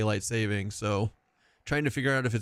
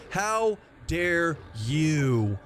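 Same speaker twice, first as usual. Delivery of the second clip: mock offended; 4 semitones higher, much slower than usual. Mock outrage, drawn out.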